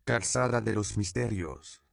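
a dreaming man calls the street name out over a crowd; calling out. A narrator's reading. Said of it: "clama Juan Diego".

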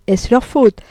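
repeated with a lawyer's sneer; Ciceronian irony. Acted. Deslauriers repeating the jab, courtroom irony. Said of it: "avec une ironie cicéronienne qui sentait le palais".

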